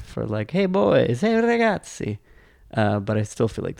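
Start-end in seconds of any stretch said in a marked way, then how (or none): 0.5-2.2 put-on calling the boys, pitched up. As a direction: hail the boys across the street. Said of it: "when you say ragazzi".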